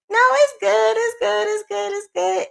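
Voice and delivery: high, repetitive pleading insistence; mock insistence. Crocheter insisting that the graph is good, mock insistent.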